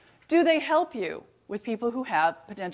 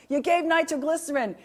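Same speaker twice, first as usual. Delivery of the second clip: imitating a curmudgeonly Boston cardiologist, pitched up; booming Boston accent; 6 semitones higher than usual. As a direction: put on a high, pompous Boston accent. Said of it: "he has this booming Boston accent".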